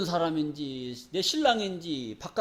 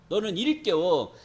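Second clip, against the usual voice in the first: slow solemn reading; much slower than usual. Acted. Scripture read slowly.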